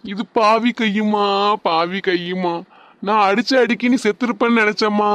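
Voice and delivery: a hammed-up mourning wail; mock lament. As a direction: ham up a fake grieving dirge. Husband fakes grief, wishing her dead.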